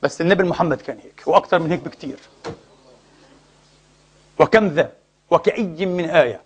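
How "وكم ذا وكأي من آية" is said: tag. Acted. Intones a scriptural address.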